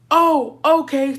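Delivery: sarcastic. Retold or imitated. Repeats reaction, more pointed.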